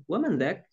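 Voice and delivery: dzalik shortened to dzak, the lam dropped; colloquial Arabic. Shown as a demonstration. Teacher showing how Arabs say it casually. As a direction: say wa man dzak clipped, with no lam. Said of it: "Orang Arab biasanya juga seperti itu ya".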